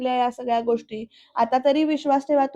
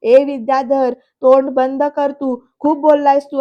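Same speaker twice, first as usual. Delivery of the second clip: loud, mildly acted telling-off; imitated angry yell; retold yelling; 5 dB louder than usual. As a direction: shout them down, half-strength. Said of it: "Shilpa सुद्धा ओरडते आता".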